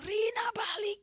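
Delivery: high, pleading whisper calling her back; begging her to come back, in a whisper; urgent whisper. Retold or imitated. Calling dying sister back, retold.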